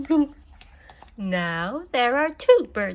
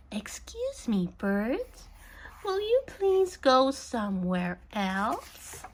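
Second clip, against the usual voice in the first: soft, polite whisper; timid whisper; 5 dB quieter than usual. Acted. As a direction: ask the birds very gently. Politely asking the birds.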